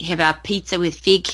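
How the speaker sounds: nasal Australian accent; laid-back Aussie accent demo. Shown as a demonstration. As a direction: chat casually in nasal Australian vowels. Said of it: "or like Australian would be more nasally".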